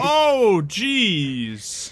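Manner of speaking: startled, high and loud oh jeez; surprised. Real, not acted. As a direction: blurt it out in real surprise. Big hit smashes the door.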